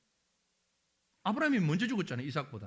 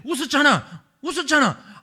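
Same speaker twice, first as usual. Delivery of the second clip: louder, laughing "웃었잖아" pressed home; laughing insistence; 5 semitones higher, 12 dB louder than usual. Acted. Preacher as God teasing Sarah, louder and laughing. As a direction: needle her through laughter.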